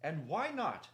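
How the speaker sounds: clear-voiced Reepicheep. A narrator's reading. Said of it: "the clear voice of Reepicheep broke in".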